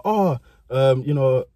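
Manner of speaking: put-on hesitant, innocent good-boy act. Guilty pupil at the nurse's door, good boy voice. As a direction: play the polite, innocent pupil. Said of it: "trying to do my good boy voice".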